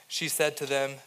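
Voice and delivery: ordinary talk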